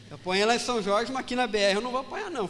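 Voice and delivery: determined outburst. Retold or imitated. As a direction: swear it with rising fire. Vows not to fail again.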